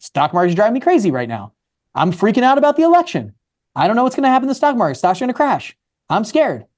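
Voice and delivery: mock freaking out. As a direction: play an investor fretting about a crash. Acting out a worried stock investor.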